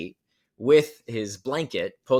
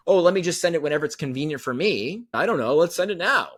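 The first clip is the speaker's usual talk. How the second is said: mock careless marketer; 5 semitones higher than usual.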